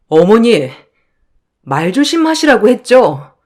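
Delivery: mildly heated, accusing daughter-in-law; indignant daughter-in-law. Acted. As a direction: confront your mother-in-law in defence of your father. Daughter-in-law confronts mother-in-law. (시어머니에게 따지는 며느리 말투)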